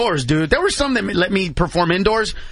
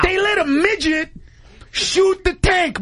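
high, slow, shouting in disbelief; excited shout; 12 semitones higher, slower than usual. Real, not acted. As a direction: belt it out amazed. Marvelling at midget shooting tank.

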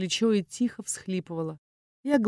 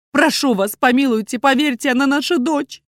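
high, loud tearful begging; desperate pleading mother; pleading through tears; 7 semitones higher, 9 dB louder than usual. A narrator's reading. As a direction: beg on your knees, voice wet with tears. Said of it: "Голос мамы дрожал от слёз".

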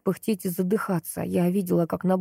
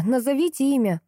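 insistent, higher call for the name; urgent command, pitched up; demanding; 6 semitones higher than usual. A narrator's reading. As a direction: press him to answer. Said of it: "требовала я".

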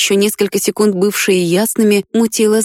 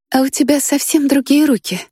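put-on soft girl voice; 7 semitones higher than usual. A narrator's reading. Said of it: "раздался тихий голос".

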